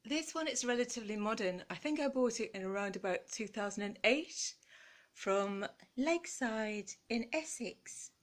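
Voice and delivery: put-on a light Essex accent, last words slowed. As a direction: drop lightly into Essex for the shop name. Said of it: "I do apologise for that accent".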